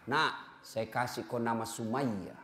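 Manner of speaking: put-on name the baby gently; softly naming his daughter Sumayyah; tender father. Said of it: "father names his daughter".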